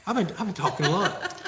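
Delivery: breathless from talking a lot; short of breath, sighing. Real, not acted. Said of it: "I'm out of breath".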